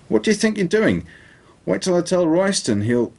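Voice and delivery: high, strained voice of a hurt man; panicked high-pitched man. Acted. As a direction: shriek it out in a pained high voice. Elliot protests and threatens.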